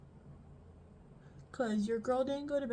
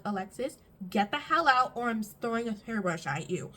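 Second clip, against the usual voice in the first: loud, sharp warning to get out; half-yelled threat at the sister; angry threat; 6 dB louder than usual. Retold or imitated. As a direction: tell her off, fed up.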